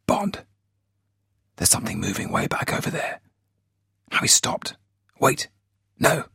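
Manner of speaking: a spotter hissing then crying out as the runner moves; excited. A narrator's reading. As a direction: rattle it off, fighting to keep his voice down. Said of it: "began talking excitedly".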